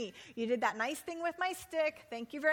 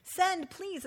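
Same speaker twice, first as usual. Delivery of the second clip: begging; 5 semitones higher, much slower than usual. Shown as a demonstration. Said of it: "a little begging word in there".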